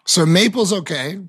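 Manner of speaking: talking through a bite of candy; mouth full. Real, not acted. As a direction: speak around a mouthful of chocolate. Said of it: "I'm gonna try maple red bean right now".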